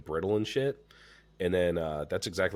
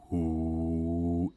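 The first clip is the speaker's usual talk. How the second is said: imitated whooshing noise. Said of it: "I hear, like, a".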